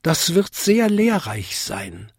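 high-pitched tinkling little bell; polite tiny bell, up high; Vinzi. A narrator's reading. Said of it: "bimmelte Vinzi".

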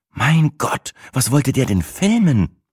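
high, appalled voice; shocked by the old man's fall. A narrator's reading. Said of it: "fragte Sina entsetzt".

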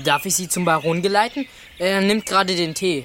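lightly refined servant's politeness; noble tone. Acted. Boy playing manservant to a baron's guest, noble tone. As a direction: offer it with a touch of formal nobility. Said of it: "auch einen sehr noblen Ton drauf".

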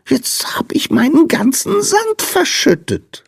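very high, squeaky lament; piteous high-pitched moan; wailing little sandman. A narrator's reading. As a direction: whine it miserably in a tiny squeal. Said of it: "jammerte der Sandmann".

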